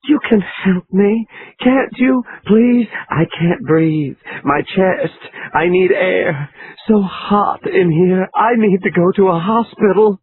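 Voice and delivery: high, slowed, crying pleas; gasping for breath, begging; high tearful breathless begging; panicked pleading. A narrator's reading. Laura's hysterical pleading.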